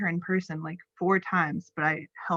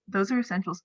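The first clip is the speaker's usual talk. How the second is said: talking with retainers in; lisping round a retainer; 2 semitones higher, faster than usual. Real, not acted. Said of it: "sorry, I have my retainers in".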